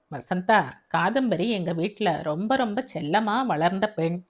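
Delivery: a hint of a gentle older man asking a favour; fatherly voice. Father asks his new wife to care for daughter, gently earnest.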